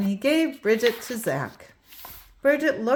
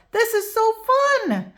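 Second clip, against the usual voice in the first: excited; 11 semitones higher, 4 dB louder than usual. A narrator's reading. Bridget rides skateboard excitedly.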